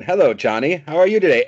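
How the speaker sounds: playful British accent impression. Shown as a demonstration. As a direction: put on a quick British accent for the greeting. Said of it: "With a British accent".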